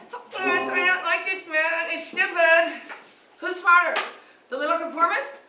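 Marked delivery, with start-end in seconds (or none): 0.1-2.8 rebellious student. Retold or imitated. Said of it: "the student who gets up and says".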